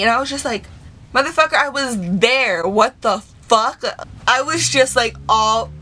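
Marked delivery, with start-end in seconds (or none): 1.1-3.8 indignant disbelief, slowing on the last words; exasperated mock confrontation; retold angry outburst. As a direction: go off on him, retelling it. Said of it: "that's when I went fucking off".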